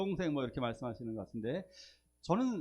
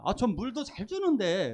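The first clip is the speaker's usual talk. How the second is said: protesting customer; 5 semitones higher than usual. Retold or imitated. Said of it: "그랬더니".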